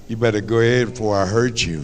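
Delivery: low, fast mock daddy grumble; grumbling daddy threat. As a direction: mutter the threat under his breath, quickly. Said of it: "your daddy will finally say something".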